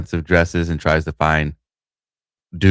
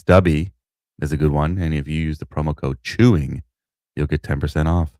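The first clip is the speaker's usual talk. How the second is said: commercial voice. Shown as a demonstration. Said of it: "That's my commercial voice".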